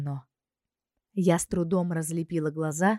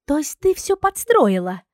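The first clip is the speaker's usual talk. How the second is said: higher, louder indignant question; indignant outburst; 10 semitones higher, 8 dB louder than usual. Acted. Zina accuses the princess of rigging it, loud and indignant. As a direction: accuse her of scheming. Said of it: "возмутилась Зинка".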